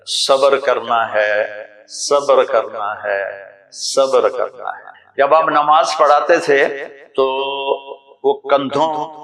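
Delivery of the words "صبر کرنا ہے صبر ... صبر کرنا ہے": slow, sorrowful, each repeat lower; grieving plea for patience. Retold or imitated. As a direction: press the word patience with grief. Ali grieving, urging patience, repeated. (آہستہ غمگین تلقین)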